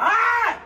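loud exasperated yell; frustrated shout. Real, not acted. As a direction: cry out in frustration. Fending off partner.

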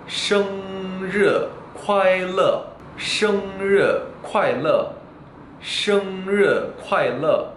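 生日快乐 slow and high, curled R in 日, clear L in 乐; slow, careful 生日快乐 with R and L kept apart; precise R versus L. Shown as a demonstration. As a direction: model 生日快乐 syllable by syllable, high first tone. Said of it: "르와 르 발음을 정확하게".

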